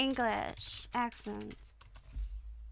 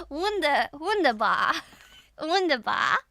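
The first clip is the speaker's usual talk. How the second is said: put-on playful German accent; 2 semitones higher, 4 dB louder than usual. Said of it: "What about a German accent?".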